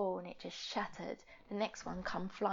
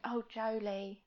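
sympathetic mum; slower than usual. Retold or imitated. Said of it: "like that".

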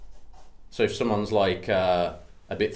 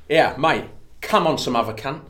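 Cockney; 4 semitones higher, 4 dB louder than usual. Pretend. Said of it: "new phrases for Cockneys to use".

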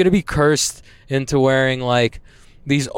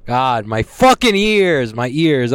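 exasperated, drawn-out outburst; yelling; 3 dB louder, slower than usual. Real, not acted. Podcaster complaining about sore ears, yelling. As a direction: yell it out in pained frustration. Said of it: "I'm sorry for yelling".

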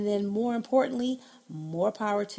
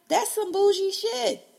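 sassy remark; 11 semitones higher, 6 dB louder than usual. Real, not acted. Mocking fancy tea deal.

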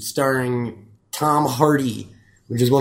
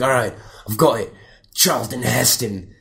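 prisoner impression; 2 semitones lower than usual. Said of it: "he talks like this the entire film".

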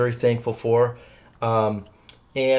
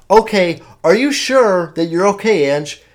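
worried mom; 5 semitones higher, 6 dB louder than usual. Retold or imitated. Mom voiced in a story.

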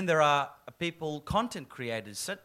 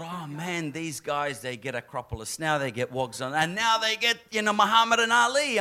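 mock exasperation; 3 semitones higher, 6 dB louder than usual. Acted envious thought about rivals.

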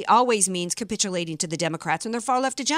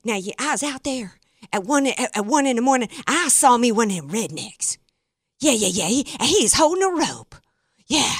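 hammed-up redneck twang; mock redneck eyewitness telling the tale. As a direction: put on a comic redneck accent. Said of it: "give her a redneck voice".

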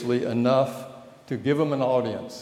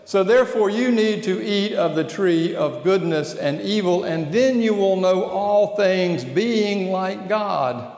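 tempter voice; 3 semitones higher than usual. Acted. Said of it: "the temptation voice says".

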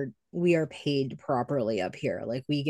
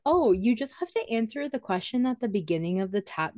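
higher, lightly put-on polite instruction; customer-service voice; 6 semitones higher than usual. Waitress retelling instructions to a card-paying customer, mock polite. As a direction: explain it as a patient server would.

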